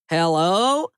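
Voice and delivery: calling out into the store; a loud hello to an empty shop. Acted. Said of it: "in a loud voice".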